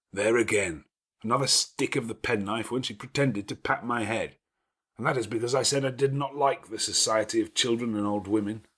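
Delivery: a lordly host giving orders at ease; gruff master of the house. Acted. Rochester answers Jane.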